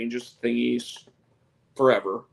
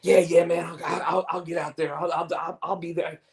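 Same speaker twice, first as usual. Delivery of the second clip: friend's eager promising voice, pitched up; imitating T, higher; 7 semitones higher than usual. Friend promising to come to karaoke, higher voice. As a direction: stammer out promises like T. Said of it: "T's been".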